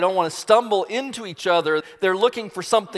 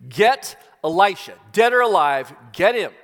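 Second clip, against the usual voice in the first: louder, punched military order; commanding order; 3 semitones higher, 5 dB louder than usual. Acted. King sends his army after the prophet, commanding. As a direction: issue it as a forceful command. King's one mission for the army.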